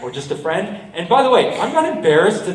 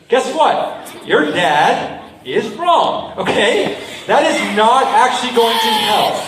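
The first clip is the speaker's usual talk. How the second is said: amused; 4 semitones higher, slower than usual. Real, not acted. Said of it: "laughs while correcting".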